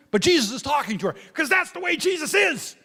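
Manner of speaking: high laughing exclaim; fond laughing shout about Jesus. Real, not acted. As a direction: laugh it out, delighted.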